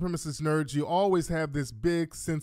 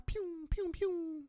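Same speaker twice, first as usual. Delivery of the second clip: high, soft pew pew; high mock gun sounds; 11 semitones higher, 11 dB quieter, slower than usual. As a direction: squeak out toy gunfire.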